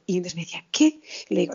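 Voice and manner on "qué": high surprised yelp imitating mum; astonished. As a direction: pitch it up in retold disbelief. Retelling mother's astonished reaction.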